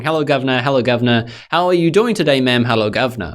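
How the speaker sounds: mock British accent. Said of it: "the saboteur is going".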